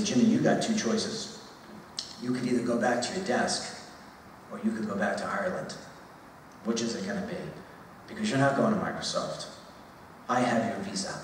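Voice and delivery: mildly sarcastic, slightly mocking boss reply. Boss answers the worker's raise request, lightly sarcastic. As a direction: toy with him, a touch smug. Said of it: "I'm gonna be somewhat sarcastic".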